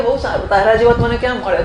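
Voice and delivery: quick, laughing line for the Lord; a hint of an amused, delighted God. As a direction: chuckle it as a fond God. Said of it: "તો એ ભગવાન કે".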